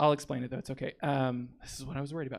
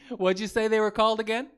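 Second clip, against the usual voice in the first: higher, louder, laughing put-on voice; giddy first listener; 7 semitones higher, 7 dB louder than usual. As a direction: giggle through it, delighted. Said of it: "my impression of someone listening to the Beach Boys".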